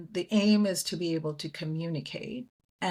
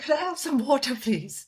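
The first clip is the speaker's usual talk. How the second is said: put-on her old way of asking, a touch higher; a hint of the Indian accent she used then; own Indian accent, lightly shown; 7 semitones higher than usual. Her own earlier accent, lightly voiced. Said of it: "I was like".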